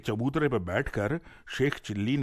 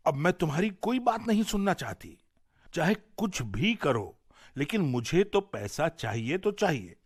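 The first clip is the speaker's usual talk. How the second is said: angry scolding; 3 semitones higher than usual. Acted. Wife scolding lazy Sheikh Chilli, angry scolding. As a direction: tell him off firmly, no more excuses. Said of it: "बीवी को बड़ा गुस्सा आया".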